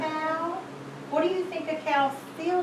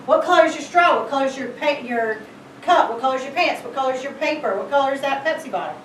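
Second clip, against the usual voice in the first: rapid-fire mock teacher questions; firing off questions; faster than usual. Shown as a demonstration. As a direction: rattle the questions off at a child. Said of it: "yell out questions at them".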